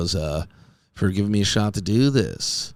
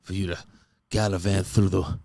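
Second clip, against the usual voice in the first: put-on old-fashioned love letter. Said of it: "I would love for them to be like".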